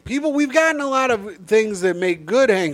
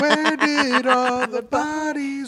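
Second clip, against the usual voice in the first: robot voice; 6 semitones higher, much slower than usual. Pretend. Repeats line in robot voice.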